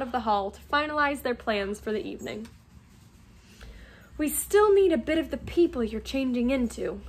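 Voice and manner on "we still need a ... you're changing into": brisk, practical instruction; lightly voiced matter-of-fact planner; matter-of-factly. Hermione briefs her friends on the plan, matter-of-factly. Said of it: "matter-of-factly".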